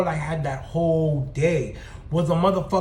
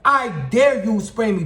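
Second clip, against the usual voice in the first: slow taunting dare; 4 semitones higher, 5 dB louder, slower than usual. Retold or imitated. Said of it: "I said".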